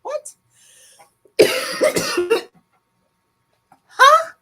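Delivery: high baffled what and huh; puzzled, high and startled; confused what. Retold or imitated. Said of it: "and I was like".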